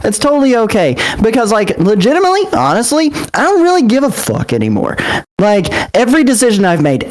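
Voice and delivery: worked-up, aggrieved rant in character; dramatic fit. Acted. Character rants at the group that is mad at him, dramatic fit. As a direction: let the hurt build into defiance, pitch lifting. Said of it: "his most dramatic fit yet".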